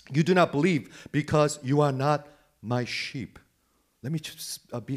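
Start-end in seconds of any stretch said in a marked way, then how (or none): 0.1-3.4 firm, emphatic declaration as Jesus; louder, spelled-out verdict; speaking plainly. Retold or imitated. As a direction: state it bluntly, punching NOT. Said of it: "he speaks really plainly".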